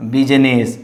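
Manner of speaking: BUSINESS in two syllables, middle I dropped; silent I. Shown as a demonstration. Teacher names the exception, BUSINESS with silent I. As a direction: say BUSINESS as "biz-ness". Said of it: "I is silent in this condition".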